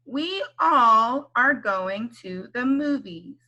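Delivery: slow, even "We all are going to the movies."; slow model read. Shown as a demonstration. Teacher models a sentence slowly first. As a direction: read it slowly for them to follow. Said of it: "Can you say this word all?".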